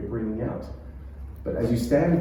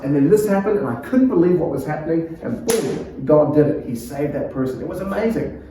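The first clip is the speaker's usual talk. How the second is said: quick, excited telling with a raised pitch; excited build; 4 semitones higher than usual. Shown as a demonstration. Preacher showing how a story speeds up, excited. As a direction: build the speed toward the big moment. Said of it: "let it come fast".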